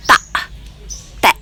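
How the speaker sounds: "ta, te" said crisply with the tongue held firm against the teeth. Shown as a demonstration. Teacher showing learners how to say "ta, te" with held tongue. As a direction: demo "ta" then "te", tongue kept steady and clipped. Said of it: "Just hold your tongue and then say".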